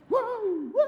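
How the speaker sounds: high loud woo woo; mock fan cheer. Acting Cowboys fans cheering.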